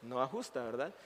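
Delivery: quick, rushed aside to the congregation; rapid-fire parenthetical remark; hurried aside. Real, not acted. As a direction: say it fast, pressed for time. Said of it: "esto lo voy a decir rápido".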